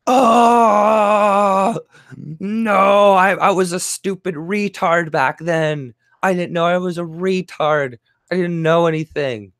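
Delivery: high, slow mock whimpering; mock whining. Streamer mocking a triggered person, high whimpering mock cry. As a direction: whine it like a self-pitying fool. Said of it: "you see how triggered people get".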